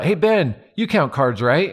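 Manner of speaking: high-pitched mock call-out; imitated yell. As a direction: imitate someone calling across to a friend. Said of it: "they yelled out".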